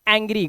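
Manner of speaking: "एंग्री" with an open ae first; "एंग्री" said as ऐंग्री; ae sound in angry. Shown as a demonstration. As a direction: begin "एंग्री" as in cat. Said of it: "इसे पढ़ते हैं".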